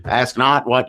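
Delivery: Kennedy's Boston accent, imitated. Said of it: "with that Boston accent".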